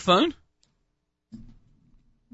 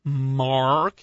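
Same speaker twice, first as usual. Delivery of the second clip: put-on American accent; 5 semitones lower than usual. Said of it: "How about this?".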